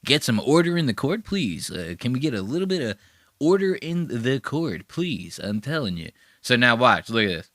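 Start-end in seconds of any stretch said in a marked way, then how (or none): 0.1-6.1 lightly voiced, soft-spoken courtroom moderator; a hint of a meek plea for order, kept quiet; Legal Eagle. Imagined lawyer moderating two yelling guys, softly imitated. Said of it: "Legal Eagle's like".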